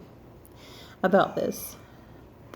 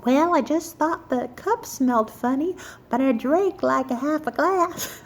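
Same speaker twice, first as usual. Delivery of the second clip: higher voice imitating mom; lightly put-on mother's voice; 5 semitones higher than usual. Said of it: "She's like".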